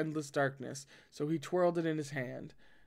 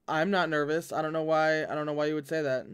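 defensive denial; 4 dB louder than usual. Real, not acted. Reader denies nerves, rushed.

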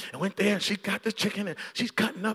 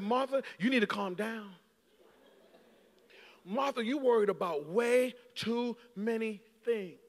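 calm correction; 3 semitones higher, 4 dB quieter than usual. Retold or imitated. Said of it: "Jesus looks at Martha and said".

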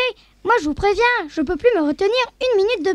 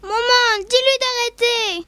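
crying out; 6 semitones higher, slower than usual. Acted. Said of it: "S'écrier".

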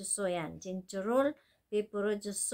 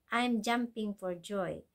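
slow model phrase; slower than usual. Shown as a demonstration.

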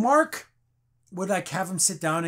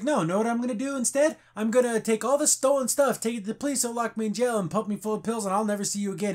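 acted-out defiant retort, pitched up; defiant threat; 4 semitones higher than usual. Steven defies the other personality with a threat, defiant. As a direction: retell the threat in a higher, insistent voice.

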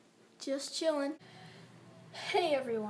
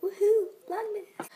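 high, loud woohoo; excited cheer; 9 semitones higher, 11 dB louder than usual. Real, not acted. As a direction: cheer it out, thrilled. Cheering for vlog intro.

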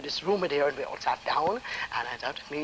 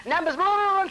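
higher, louder rattled call; rattled-off numbers; 13 semitones higher, 5 dB louder than usual. Retold or imitated. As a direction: rattle them off quickly like the clerk. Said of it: "She rattled off some numbers".

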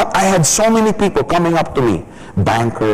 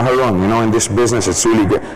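calm and measured; 5 semitones lower, faster than usual. Shown as a demonstration. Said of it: "speaks at the right pace, not too soft".

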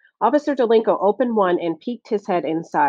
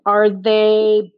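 flabbergasted; 2 semitones higher, 4 dB louder, much slower than usual. A narrator's reading. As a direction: ask it in disbelief. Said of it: "Curly was flabbergasted".

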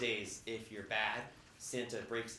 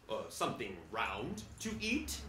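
gentle hinting Santa; 3 semitones lower than usual. Retold or imitated. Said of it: "He tried to help her out by saying".

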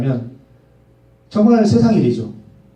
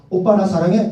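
imitating wife; 3 semitones higher than usual. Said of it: "저를 오빠라고 불렀거든요, 집사람이".

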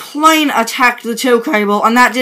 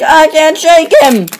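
hurried, higher and urgent; panicky plea; 5 semitones higher than usual. Acted. Truck hooked by an enemy pleads with his buddy in panic. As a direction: beg for help as the enemy clings. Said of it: "Okay, maybe I can't shake him".

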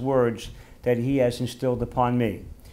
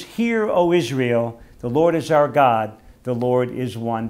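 solemn prayer proclamation; proclaimed prayer; 4 dB louder than usual. Real, not acted. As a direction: declare it to the congregation. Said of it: "Let us say together".

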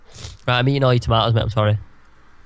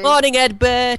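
put-on baby talk; 9 semitones higher, slower than usual. Greeting the egg fondly.

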